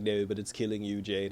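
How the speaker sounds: low, hushed mock-hero voice; lightly acted hero. Hero pleads with sick girlfriend, in a low mock-hero voice. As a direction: imitate a grave hero, low and soft. Acting Thor forbidding Jane the hammer.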